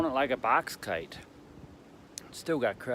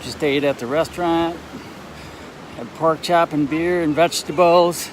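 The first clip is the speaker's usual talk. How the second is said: windy on a bridge; 4 semitones higher, 9 dB louder than usual. Real, not acted.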